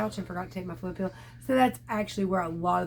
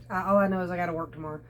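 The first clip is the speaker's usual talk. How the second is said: ordinary talk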